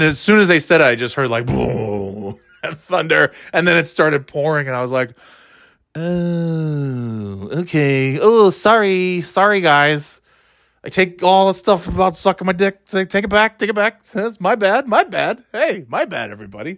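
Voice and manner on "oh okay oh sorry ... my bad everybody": sheepish apology. Retold or imitated. Sheepish apology after thunderstorm.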